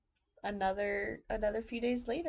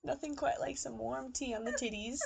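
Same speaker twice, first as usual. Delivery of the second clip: laughing; 4 dB quieter than usual. Real, not acted. Laughing at spilled tea.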